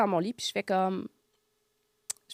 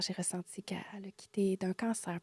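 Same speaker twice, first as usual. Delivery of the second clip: annonce tout bas, sans voix; chuchotement délicat; 7 dB quieter than usual. Retold or imitated. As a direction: murmure la nouvelle avec délicatesse. (chuchote avec douceur)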